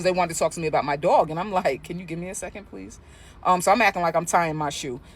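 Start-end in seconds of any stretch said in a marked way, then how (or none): 1.8-3.0 stalling murmur. Acted. Stalling to keep listening.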